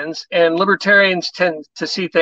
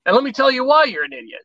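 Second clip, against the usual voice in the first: mock comeback; 5 semitones higher than usual. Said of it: "They're expecting maybe".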